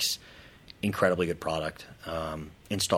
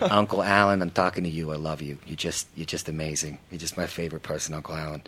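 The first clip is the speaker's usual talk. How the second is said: put-on New York accent; 4 dB louder than usual. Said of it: "Is that your New York accent?".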